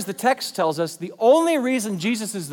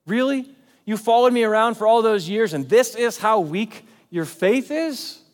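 incredulous mock scolding, higher and louder; crushing reproach; 4 semitones higher, 4 dB louder than usual. Jesus imagined shaming Thomas's weak faith, crushing reproach. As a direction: scold him in disbelief, ending on a high question. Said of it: "He doesn't come in and crush Thomas".

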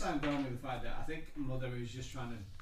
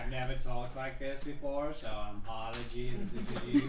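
attempted Southern accent. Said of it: "I'm terrible at accents".

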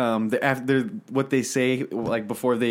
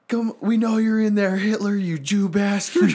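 arrogant soldier; 8 semitones higher than usual. Retold or imitated. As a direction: play the cocky trooper calling out Hitler. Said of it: "one of the American troops just goes like".

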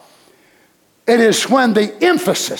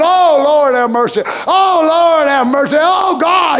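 hammed-up wailing plea, pitched up; mock boo-hooing; 3 semitones higher than usual. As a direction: imitate a crowd crying out to God. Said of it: "just boo-hooing and crying".

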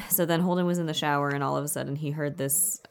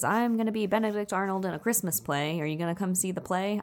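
higher-pitched, mildly excited retelling; excited little sister; 5 semitones higher than usual. Retold or imitated. Little sister tells her brother about her play, excited. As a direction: lightly act out an eager kid. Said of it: "she's so excited to see him".

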